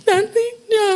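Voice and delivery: very high put-on voice; hammed-up high squeak; mock Alexis. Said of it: "She's like".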